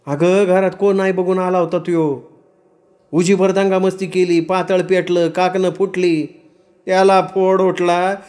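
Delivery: high-pitched rustic women telling what happened; high village-woman dialogue voice; upset village women recounting. Acted.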